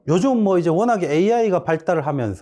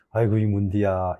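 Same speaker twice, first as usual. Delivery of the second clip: affectionate Gyeongsang tease; 7 semitones lower than usual. Shown as a demonstration. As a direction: tease a student you love, Busan style. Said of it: "욕하는 게 아니고요".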